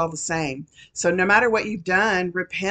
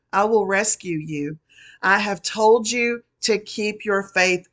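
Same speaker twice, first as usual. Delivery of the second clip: solemn prophecy spoken in God's voice; prophetic word. Acted. Prophesying to the congregation as the Lord, solemn proclamation. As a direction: proclaim it as the Lord speaking to his people.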